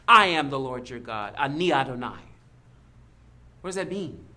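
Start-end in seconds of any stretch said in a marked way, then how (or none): 0.1-2.2 loud, resounding declaration; booming voice of God. Acted. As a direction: proclaim it like the voice of God. God's voice resounds at Sinai.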